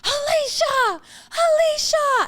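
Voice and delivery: high, loud drawn-out name call; yelling. Retold or imitated. Imitating a girl screaming the storyteller's name across a bar, yelling. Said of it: "like, yelling my name".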